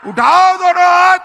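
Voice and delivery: loud, high urging; high, forceful crowd-rousing call; shouted rally command. Real, not acted. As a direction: shout the order to the whole crowd. Commands crowd to raise hands.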